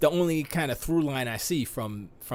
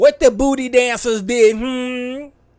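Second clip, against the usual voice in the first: very loud, very high drawl; 11 semitones higher, 11 dB louder than usual. Acting out a chat message as its writer would say it: imitating Bridget sounding ghetto. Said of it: "How come Bridget sound super ghetto talking?".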